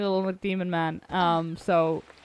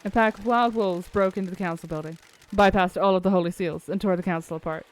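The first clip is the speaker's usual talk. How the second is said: sarcastic. Acted. Skeptic repeating the wolf theory back, sarcastic. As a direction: recount the wild tale with dry sarcasm. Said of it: "I can hear the sarcasm in your voice".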